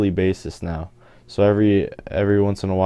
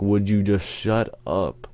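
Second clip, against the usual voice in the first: slow, drawn-out fed-up retort; retold exasperation; slower than usual. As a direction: act out losing patience, stretching the words.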